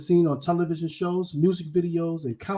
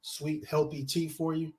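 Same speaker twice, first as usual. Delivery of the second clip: talking between sips of tea; words around a sip of tea; sipping hot tea; 2 semitones lower, 7 dB quieter than usual. Real, not acted. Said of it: "let me take a sip of my tea".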